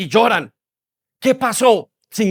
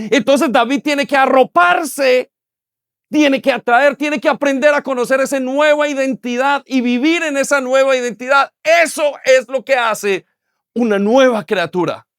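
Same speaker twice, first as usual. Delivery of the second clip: rising exhortation; 4 semitones higher than usual. Real, not acted. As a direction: drive the point home to the room. Preacher building to exhortation.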